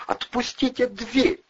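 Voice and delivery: put-on high, thin, slow furious shriek of a girl; thin furious squeal. A narrator's reading. Nurse shrieking at Andrei to let go, thin furious squeal. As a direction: squeal it in a tiny voice full of rage. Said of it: "взвизгнула медсестра тоненьким, полным ярости голоском".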